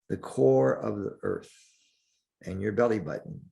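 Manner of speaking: calm meditation guide with long pauses; unhurried, leave space between the phrases; guided meditation. Acted. Teacher guides listeners through breathing and centering, guided meditation.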